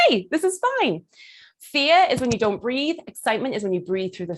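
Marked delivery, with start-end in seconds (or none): 0.1-1.1 bright-pitched, breezy greeting; easygoing confidence. Acted. Coach showing someone who breathed through stress, easygoing. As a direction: greet the room as if unbothered. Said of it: "that energy of like".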